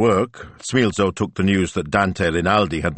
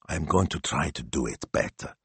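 slow and cautious; 2 semitones lower, 6 dB quieter than usual. Acted. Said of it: "he said slowly and cautiously".

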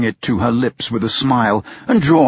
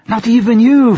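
higher, louder passionate cry; fervent outburst; 12 semitones higher, 7 dB louder than usual. Acted. Blind Bertha to her father, fervent and loud. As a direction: pour out her devotion.

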